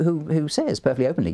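ordinary talk

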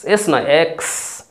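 এক্স stressed against এস, slowly; teacher correcting এস to এক্স slowly; slow contrast. Shown as a demonstration.

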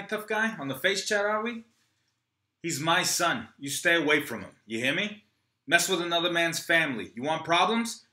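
high, tense threats; threatening. Acted. Troy threatens Rocky back, tense. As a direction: stand up to the gangster.

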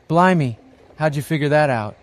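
high, loud astonished outburst; flabbergasted. A narrator's reading. Mum is stunned Johnny knows her weight, flabbergasted. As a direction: blurt it out in amazement. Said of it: "she's flabbergasted".

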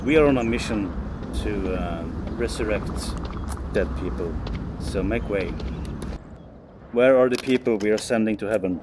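preacher voice. Pretend. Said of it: "you sound like a preacher".

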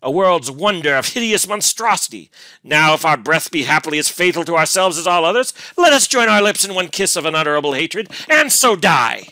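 loud, high furious denunciation; beside himself with passion. A narrator's reading. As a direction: rage at full cry, relentless. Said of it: "feeling beside himself with passion".

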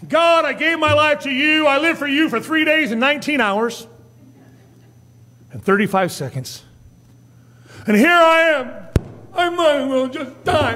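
high, hammed-up sulking complaint to God; mock temper tantrum. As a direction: pout and whine at God. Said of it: "have a little temper tantrum before God".

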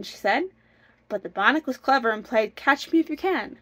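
lively, measured storybook narration; storytelling. A narrator's reading. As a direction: read the folk tale aloud with bounce. Reads a folk tale aloud.

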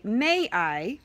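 polite little request; pleasant, courteous model question; calm and pleasant. Shown as a demonstration. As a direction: ask sweetly and calmly for permission. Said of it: "use a calm and pleasant voice".

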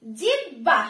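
জিহ্বা as jib-bha, h sounded last; b before h. Shown as a demonstration. Teacher repeats after explaining the order, b before h. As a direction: say জিহ্বা with b first, then the breath. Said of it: "হটা শেষে উচ্চারণ হচ্ছে".

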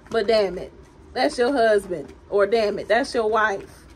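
loud, emphatic teasing; playful mock exasperation. Tarot reader jokingly reminds someone it's their spouse, mock exasperation. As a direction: hammer it home in mock exasperation. Mock scolding, "I'm just playing.

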